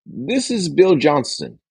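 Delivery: high, slow, unsure self-introduction; weak salesperson. Shown as a demonstration. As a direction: say your name hesitantly. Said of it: "Here's a weak salesperson".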